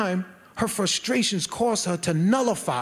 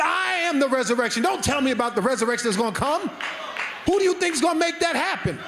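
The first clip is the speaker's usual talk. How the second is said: indignant; 5 semitones higher, faster than usual. Retold or imitated. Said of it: "He got a little indignant with her".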